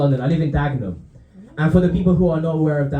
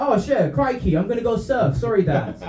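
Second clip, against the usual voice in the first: put-on Australian kid; 5 semitones higher than usual. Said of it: "the kid would be like".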